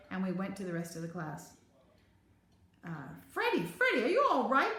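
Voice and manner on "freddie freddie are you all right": high-pitched, eager concerned calling; anxious children. A narrator's reading. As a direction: call out to a friend you feared lost. Friends call out, concerned.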